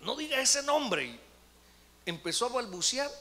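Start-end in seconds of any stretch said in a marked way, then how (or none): 0.0-1.1 high, loud demon voice, drawn out; imitated possessed wail, slow; voice not her own. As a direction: protest as the demon speaking through her. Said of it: "no era la voz de ella".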